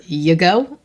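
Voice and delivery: "You go?" run together like y'go; pared-down dialect. Shown as a demonstration. Writer showing characters' different speech, pared-down "You go?". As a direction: cut it down to a casual "You go?". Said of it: "so many different ways that people say things".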